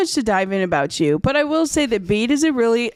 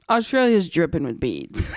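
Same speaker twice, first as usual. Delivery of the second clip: laughing quote; 3 semitones lower than usual. Retold or imitated. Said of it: "I was like".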